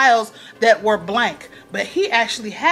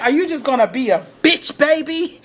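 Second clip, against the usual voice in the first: mock taunt; 5 semitones higher than usual. Olivia in Cyrus's face.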